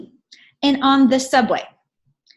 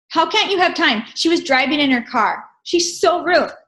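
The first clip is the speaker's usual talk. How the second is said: indignant lady; 5 semitones higher than usual. Retold or imitated. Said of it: "lady complaining".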